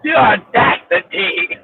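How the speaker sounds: emphatic demonstration; emphatic the audacity. Shown as a demonstration. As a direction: drawl "The audacity" low, with heavy emphasis. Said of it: "you learn to say the audacity".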